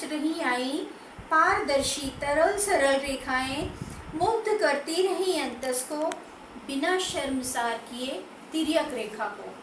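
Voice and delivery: measured poetry reading, phrase by phrase with pauses; poem recitation. Acted. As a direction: recite the verse with deliberate lilting emphasis. Recites her second poem.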